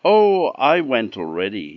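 the little pig, quick and eager; excited pig. A narrator's reading. Pig answers wolf.

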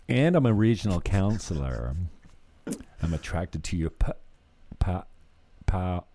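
talking clam. Acted. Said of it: "what the clam says?".

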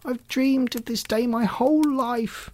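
sad. A narrator's reading. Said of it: "Alley Cat said sadly".

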